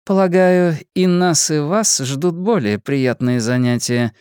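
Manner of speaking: a slow, tight-lipped, clipped reply; through clenched teeth. Acted. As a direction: say it barely opening your lips. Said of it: "не разжимая губ, процедила она".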